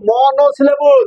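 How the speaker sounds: slow, stretched model for the class; drawn-out drill call. Shown as a demonstration. Teacher to class for repeat-after-me, slow drawn-out call.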